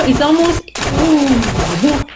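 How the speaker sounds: excited. Acted. Excited fishing, spotting shark.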